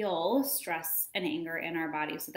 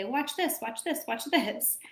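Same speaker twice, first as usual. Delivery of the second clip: imitating child; 5 semitones higher than usual. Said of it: "When they say".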